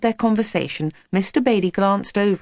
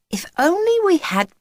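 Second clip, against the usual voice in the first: high, swooping exclamation; wish cut short; 11 semitones higher than usual. A narrator's reading. Jack suddenly spotting Miss Whiz, exclaiming mid-wish. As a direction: start a wish, rising sharply. Jack's wish breaks off on sighting her.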